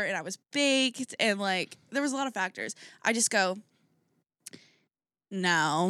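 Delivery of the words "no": bitchy little no. Retold or imitated. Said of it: "the bitchiest little voice".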